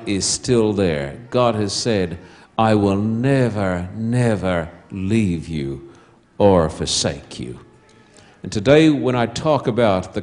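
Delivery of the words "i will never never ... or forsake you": slow, deliberate and solemn; preacher voicing God's promise to his people, solemnly. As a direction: lean on each never, slowly.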